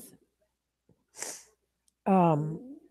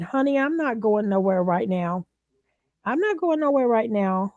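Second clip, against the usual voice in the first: emphatic, repeated promise with rising force; imitated firm reassurance; 4 semitones higher, 3 dB louder than usual. Friend calming a panicked caller, firmly reassuring. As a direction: imitate a friend insisting, second time pitched higher.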